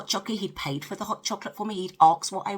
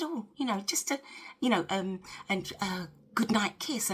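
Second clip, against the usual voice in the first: sheepish mumble; 3 semitones higher, 5 dB quieter than usual. Retold or imitated. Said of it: "He said".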